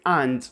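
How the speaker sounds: and with an open British A. Shown as a demonstration. Teacher repeats the British and. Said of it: "They say".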